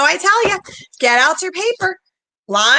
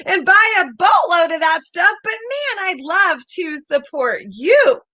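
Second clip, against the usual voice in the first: higher, keen customer saying yes; eager client; 4 semitones higher than usual. Pretend. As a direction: gush like a happy buyer. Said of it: "What if she says".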